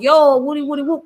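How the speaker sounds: lightly done New York accent; a hint of New York in a quick call-out. Shown as a demonstration. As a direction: greet them with a touch of New York accent. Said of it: "sometimes I get the New York, um, accent".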